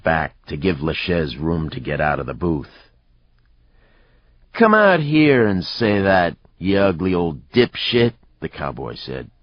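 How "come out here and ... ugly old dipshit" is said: raised, loud goad that drops off; belligerent challenge. A narrator's reading. Cowboy daring an old man to fight, belligerent. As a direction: call him out for a fight.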